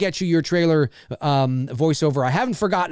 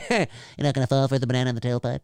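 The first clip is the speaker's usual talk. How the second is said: laughing mock redneck drawl; 3 semitones lower, faster than usual. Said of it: "That's how he says it".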